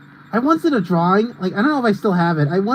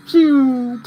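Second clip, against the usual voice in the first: drawn-out phew; 7 semitones higher than usual. Real, not acted. Reacting during the race.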